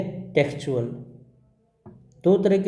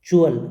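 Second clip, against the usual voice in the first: च्युअल punched loud; emphatic ending; 6 dB louder, faster than usual. Shown as a demonstration. Teacher stressing the ending च्युअल for students. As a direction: hit च्युअल loudly. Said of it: "उसको हम बोलेंगे".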